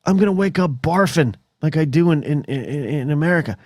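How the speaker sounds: mock dread. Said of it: "I'm thinking".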